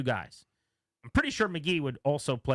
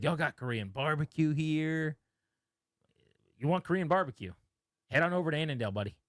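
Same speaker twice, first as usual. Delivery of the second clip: lightly imitated Texan country accent, easygoing; a hint of a Texan football player's twang; Von Miller's Texan twang. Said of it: "it's a subtle Texan, like, country sound".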